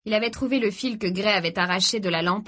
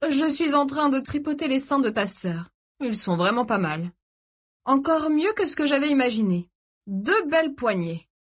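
leering taunt, mostly pitched up; gloating captor; 7 semitones higher than usual. A narrator's reading. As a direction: goad the brother, drawing out the end. Ravisseur provoque le frère. (ravisseur narquois et pervers)

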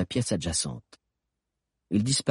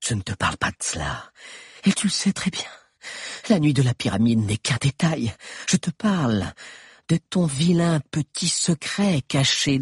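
a lightly voiced sly witch, menacing; taunting queen; 5 semitones higher than usual. Captive queen taunts Eugénor about his secret, lightly menacing. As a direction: needle him with his secret. Queen threatens her captor.

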